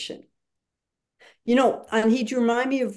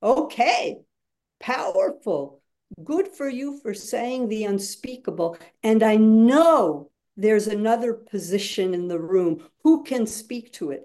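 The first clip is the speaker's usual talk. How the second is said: facilitator's response. Shown as a demonstration. Facilitator answering a student's strong comment, mildly upbeat. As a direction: affirm the speaker warmly, then invite others. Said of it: "I say".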